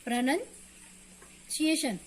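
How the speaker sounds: प्रोनाउंसिएशन said slowly as "pra-nun-see-ay-shun"; slow teacher model of the right way; correct pronunciation. Shown as a demonstration. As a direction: spell it out slowly with the short "nun" sound. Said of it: "Hindi में मैं लिख के दिखा दूँ आपको".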